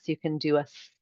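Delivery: s held out long; a long hissing s; prolonged s. Shown as a demonstration. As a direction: stretch the s sound. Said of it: "a sound you can prolong".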